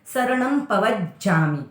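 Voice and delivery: शरणम पवज्जामि slowly with a plain स sound; slow, lips-only स in शरणम; careful pronunciation. Shown as a demonstration. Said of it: "होठ वाला है सिर्फ". (शरणम पवज्जामि धीरे, स होठ वाला)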